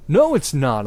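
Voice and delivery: hammed-up angry shout. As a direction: snap it back. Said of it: "I shouted angrily".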